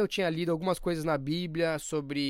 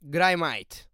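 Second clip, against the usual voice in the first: Australian accent. Shown as a demonstration. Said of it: "É uma saudação australiana aqui".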